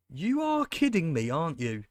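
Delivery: real frustrated outburst at the game; exasperated disbelief. Real, not acted. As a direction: rage at the missed chance, then sag. Disbelief at missed chance.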